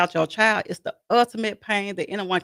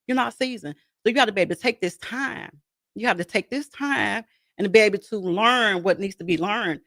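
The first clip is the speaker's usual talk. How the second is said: higher voice, as God answering her; a light hint of God's voice, higher; voicing God; 4 semitones higher than usual. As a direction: speak as God telling her she's not ready yet, pitched up. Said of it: "So God was like".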